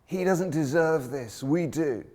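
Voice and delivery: mock-yelled rebuke from the cross; yelling thief. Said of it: "the other thief yells at him".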